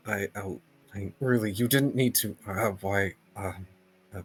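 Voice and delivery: halting, nervous stammer full of false starts. Acted. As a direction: stumble over the words nervously. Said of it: "Lost is still stammering".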